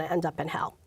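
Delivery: breathy hushed whisper. Real, not acted. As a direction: drop to a whisper on the thought. Fear of hell, aside.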